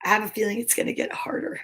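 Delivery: quick hushed worry; fast whisper. Real, not acted. Reader whispers a worry before the hard page.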